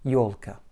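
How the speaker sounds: ёлка with a weak, reduced final а. Shown as a demonstration. Teacher modelling ёлка for learners, reduced final A. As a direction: say ёлка, stressing ё and weakening the а. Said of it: "avec un A réduit".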